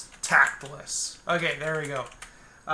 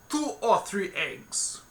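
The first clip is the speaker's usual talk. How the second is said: bartender voice; 5 semitones higher, slower than usual. Acted. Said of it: "excuse any really poor accents".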